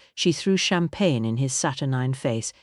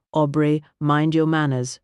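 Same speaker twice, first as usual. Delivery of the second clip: called out, a touch louder; calling back; 3 dB louder than usual. Acted. Lady Patricia calling back to her husband, scolding. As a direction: call it down the stairs sharply. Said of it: "she called back".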